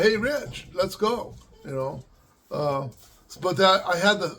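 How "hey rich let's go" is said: loud, higher mock yell to a kid; retold call out. Parent who should have shouted for Rich, mock yell. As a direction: call him over, loud and a bit higher. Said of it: "how about yelling".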